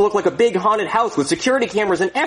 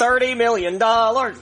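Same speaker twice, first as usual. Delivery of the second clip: excited; 5 semitones higher, slower than usual. Acted. Gloating about the money.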